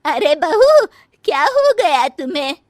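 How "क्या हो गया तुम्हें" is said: ordinary delivery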